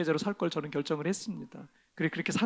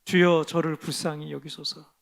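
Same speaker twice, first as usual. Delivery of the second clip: prayer; 4 dB louder than usual. Shown as a demonstration. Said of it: "이렇게 기도하세요".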